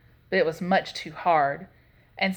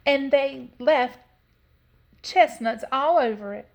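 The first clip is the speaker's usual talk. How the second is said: Mama Bear; 5 semitones higher, 5 dB louder than usual. A narrator's reading. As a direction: stretch out the mother bear's dismay. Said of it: "in her middle-sized voice".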